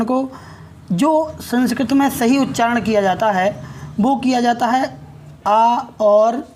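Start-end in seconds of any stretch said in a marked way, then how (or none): 5.5-6.5 आ stretched out very long before और; drawn-out aa demo. Shown as a demonstration. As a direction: hold the आ vowel long and slow. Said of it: "इन दोनों को जब हम एक साथ बोलेंगे".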